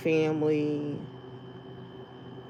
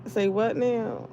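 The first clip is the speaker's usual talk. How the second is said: pretend confusion; 4 semitones higher, slower than usual. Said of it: "looking around that courtroom like".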